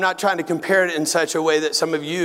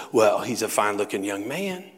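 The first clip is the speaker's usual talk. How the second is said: confused father; 5 semitones lower, 3 dB quieter than usual. Retold or imitated. Dad sizing up a stranger for the nurse, puzzled. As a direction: answer low, stretching the last word.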